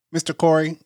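imitated Spanish accent on the phone. Maintenance guy calling Mister Corey, in an imitated Spanish accent. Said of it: "very Spanish accent".

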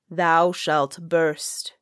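slow, hushed whisper of doom; ominous whisper. A narrator's reading. Voice at the window whispers the lord's doom, slow ominous whisper. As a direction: breathe the curse out slowly, barely voiced.

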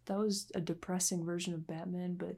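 soft unvoiced whisper; hushed awe, barely voiced; whispered reverent aside. Real, not acted. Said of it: "hushed awe about Batman".

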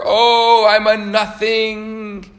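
very high, loud wail stretched slow. Retold or imitated. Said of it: "screaming even louder".

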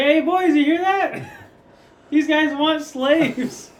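high, loud jeering pirate; old sailor. Acted. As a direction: call to the crew, mocking and loud. GM voices pirate calling crew.

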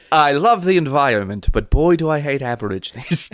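lightly voiced nature narrator; mock documentary earnestness; David Attenborough. Narrator confessing a prejudice, light Attenborough impression. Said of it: "Jesus, David Attenborough".

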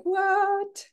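high, startled cry; mock shock. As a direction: yelp in mock disbelief. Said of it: "it was like".

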